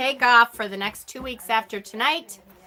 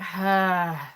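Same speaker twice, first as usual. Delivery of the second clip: exasperated sigh; 2 semitones lower than usual. Acted. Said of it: "I just am like".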